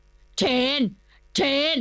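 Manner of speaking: rising call, slow and pushed; all-out shout. Acted. The lord shouts Kimnuan's nickname, rallying. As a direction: cheer him on to the death. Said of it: "ตะโกนสุดเสียง".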